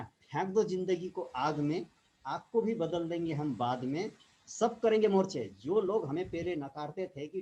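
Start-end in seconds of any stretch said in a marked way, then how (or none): 0.0-5.6 verse recitation. Retold or imitated. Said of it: "कहते हैं ना". (जोश से शेर सुनाते हुए)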